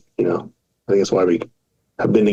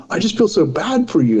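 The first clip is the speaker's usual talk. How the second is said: lightly voiced tipsy friend, higher; a hint of drunken sympathy; drunk friend's pity; 9 semitones higher than usual. Drunk best friend in Vegas, lightly mock sad. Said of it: "And he's like".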